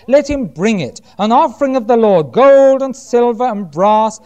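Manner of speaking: projected, declaimed Bible reading; scripture reading. Acted. Preacher reading Moses' command to Israel, declaimed. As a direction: proclaim the passage to the congregation.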